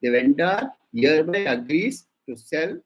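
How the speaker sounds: "agrees" weighted, set apart in the clause; emphasized wording. Shown as a demonstration. Lecturer stressing contract wording for students, emphatic on "agrees". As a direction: dictate it firmly, leaning on "agrees". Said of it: "again I'm emphasizing the word".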